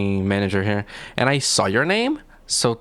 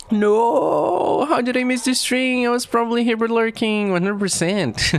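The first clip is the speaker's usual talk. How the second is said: excited reading; 10 semitones higher than usual. Retold or imitated. Streamer reads chat message excitedly.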